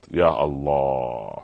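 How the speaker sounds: slow, low sigh of dismay; drawn-out lament. Acted. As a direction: stretch it out in sorrowful disbelief. Preacher laments wife's ingratitude. (تنهيدة حزينة بطيئة ومنخفضة)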